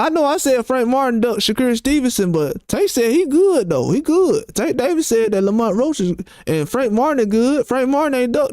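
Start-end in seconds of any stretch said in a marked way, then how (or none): 2.3-6.1 sarcastic. Retold or imitated. Vlogger mocking fans who trust Tank, sarcastic. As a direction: sneer the praise as a joke.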